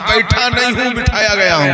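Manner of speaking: rising forceful preaching answer; emphatic reply. Retold or imitated. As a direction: stress that he was sent, forcefully. Disciple answers the jinn chief.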